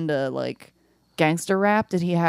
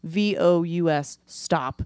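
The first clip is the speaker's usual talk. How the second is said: letter by letter, dropping on each "stop"; measured dictation with pauses between units; telegram dictation. Shown as a demonstration. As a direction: spell it out like a telegram. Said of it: "like a telegram".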